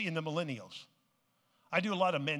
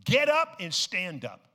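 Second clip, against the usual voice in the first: preaching emphasis; 2 semitones higher, 6 dB louder than usual. Real, not acted. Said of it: "I'm gonna say it again".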